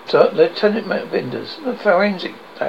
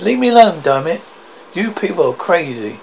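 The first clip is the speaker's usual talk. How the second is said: rage; 4 dB louder than usual. Acted. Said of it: "David turns in a rage".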